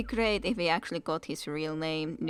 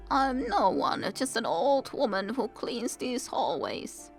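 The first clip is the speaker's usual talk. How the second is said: lightly voiced old cleaning lady; a touch of a grumbling old woman; chatty grumbling charwoman; 4 semitones higher than usual. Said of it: "She's the cleaning lady".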